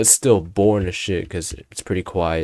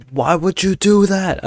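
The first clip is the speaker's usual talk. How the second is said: loud, high, drawn-out protest; joking yell; 11 semitones higher, 7 dB louder, slower than usual. Retold or imitated. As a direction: yell it in outraged mock disbelief, stretching it. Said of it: "I literally yell at her".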